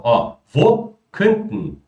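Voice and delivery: wo könnten with the -en swallowed to a bare n; slow demo of könnten, ending swallowed. Shown as a demonstration. Teacher showing Brazilian students how Germans swallow the ending. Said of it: "perceba como eu vou engolir".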